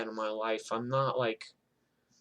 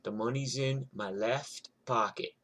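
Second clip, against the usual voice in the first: calm quiet; 5 dB quieter than usual. Retold or imitated. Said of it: "And I'm like".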